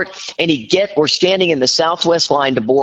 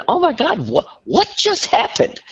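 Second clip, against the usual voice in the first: very high, gasping mock hysterics; retold hysteria. Wife in the waiting room after the fight, hysterical. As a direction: act like you can't catch your breath, voice way up. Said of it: "I'm hysterical".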